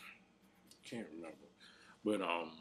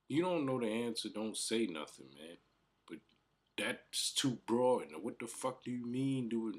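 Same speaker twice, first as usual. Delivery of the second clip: higher, louder exasperated yell, slowing on too broad; frustrated yelling; 7 semitones higher, 7 dB louder than usual. Retold or imitated. Retelling yelling at his brother, frustrated loud yell. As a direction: vent at him like you're fed up.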